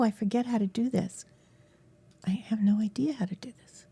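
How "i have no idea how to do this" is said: whispering. Real, not acted. Muttering to self on stream.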